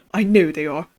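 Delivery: lightly British paranoid prisoner; a hint of a British accent. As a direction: say it with a slight British lilt. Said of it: "he's not British".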